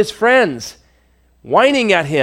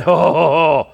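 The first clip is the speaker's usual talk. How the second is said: mock indignant Zophar; 2 semitones higher than usual. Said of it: "Zophar the Naamathite answered and said".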